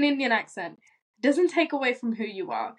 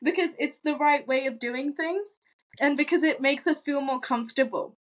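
Indian accent, higher and brisk; switched home Indian accent; 3 semitones higher than usual. Shown as a demonstration. Friend showing the others they could drop the pretense, in Indian accent. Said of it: "we could switch like this right now".

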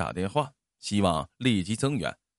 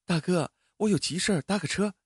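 friendly, higher smiling ask; smiling request; 7 semitones higher than usual. Acted. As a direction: charm the driver into a ride. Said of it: "她对司机笑笑说". (姑娘笑着向司机求搭车，声音偏高)

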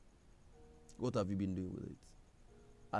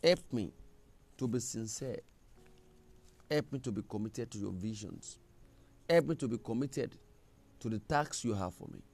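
earnest prayer. Acted. Leads the congregation in prayer.

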